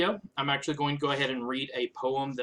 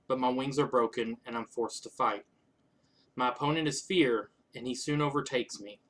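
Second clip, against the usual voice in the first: measured, even poetry recital; poem reading. Acted. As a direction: read your old poem aloud line by line. Reads own old poem aloud.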